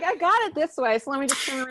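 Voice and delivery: high-pitched, sure-of-himself imitation; playfully high retold voice; eager character quote. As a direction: pitch it up as the confident fool. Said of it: "Well, he's like".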